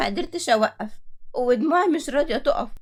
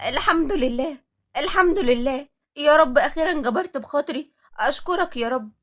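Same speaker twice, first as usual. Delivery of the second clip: joyful thanks; 2 semitones higher than usual. Acted. Thanking God after news.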